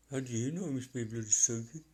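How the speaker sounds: quick light Birmingham accent imitation; Brummie accent again. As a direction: mimic the Brummie bloke. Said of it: "it's just his accent".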